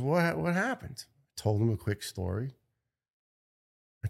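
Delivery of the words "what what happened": high, slow astonished ask; stunned question. Retold or imitated. Doctor asks the firefighter, amazed, how it healed. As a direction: draw it out in amazement.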